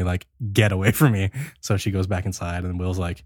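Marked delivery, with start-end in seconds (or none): 0.5-1.3 mildly stern retold brush-off; firm, measured refusal. Will turns down Sadie's offer by the pool, sternly. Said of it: "Very sternly".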